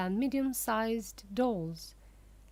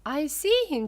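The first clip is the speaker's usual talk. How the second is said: excitedly; 5 semitones higher, 6 dB louder than usual. A narrator's reading. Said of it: "said Grandpa Joe excitedly".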